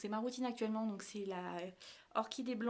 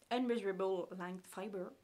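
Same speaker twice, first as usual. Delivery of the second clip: slow English with a French accent; 4 dB louder than usual. Real, not acted. Vlogger reading a mascara name aloud, French-accented English. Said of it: "Oh, l'accent anglais de ouf".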